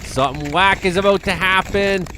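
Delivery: slow, rising alarm at the ice; alarmed surprise. Real, not acted. Watching the ice break, growing alarm. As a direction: notice danger coming. Ice starts heaving in video.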